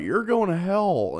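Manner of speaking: high mock yell; imitating angry woman. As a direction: shout it like a raving shopper. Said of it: "She's like".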